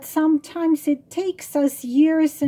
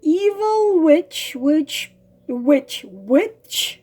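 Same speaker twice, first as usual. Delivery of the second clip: ominous witch; 3 semitones higher, 4 dB louder, slower than usual. Acted. Frog tells the girl about the witch, drawn out ominously. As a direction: spell out the witch like a spooky tale.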